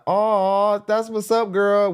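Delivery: high, bright fake praise to her face; fake hype voice. To the singer's face, mock gushing praise. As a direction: gush like a phony fan. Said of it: "be like".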